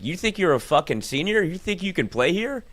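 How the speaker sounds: mock coach telling off a freshman; scolding coach. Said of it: "coach noticed".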